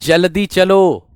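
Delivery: slow, deliberate reading; slow dictation. Shown as a demonstration. Teacher slowly reads the example command to students. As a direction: stretch जल्दी चलो slowly. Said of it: "अभी अभी बताया था".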